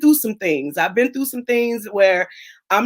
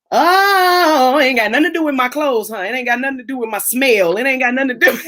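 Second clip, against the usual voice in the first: joyful exclaim; 3 semitones higher, 4 dB louder than usual. Retold or imitated. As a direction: celebrate the freedom of church. Joyful church freedom retold.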